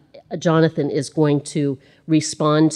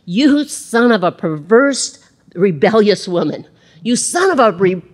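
angry Saul; 3 semitones higher, 4 dB louder than usual. Acted. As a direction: spit out the insult at his son. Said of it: "And Saul was angry".

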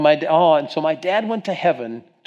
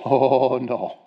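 long drawn-out "oh", then a falling "no"; imitating his dad. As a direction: play dad's sustained, resolved refusal. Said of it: "Almost exactly like that".

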